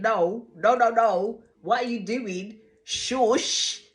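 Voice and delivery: loud, urgent no no no; urgent mock shush. Molly silently begging her to stop, mock urgent shush. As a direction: warn her off fast, pressing. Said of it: "emphatically shaking her head".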